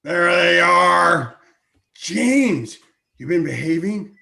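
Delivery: slow, loud hearty greeting; hearty uncle. Acted. Uncle to the couple, greeting them heartily.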